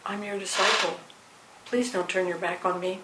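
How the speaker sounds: a humble plea not to be ignored; mild pleading disciple. Retold or imitated. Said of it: "It could have been".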